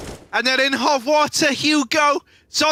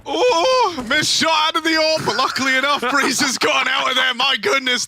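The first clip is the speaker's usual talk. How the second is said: excited caster call; 5 semitones higher than usual. Real, not acted. Caster reacts to clutch play.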